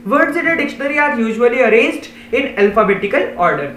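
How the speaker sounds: slow, deliberate reading of a definition; slow read-aloud. Shown as a demonstration. Teacher slowly reading the dictionary definition to pupils. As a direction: spell out each word for the class.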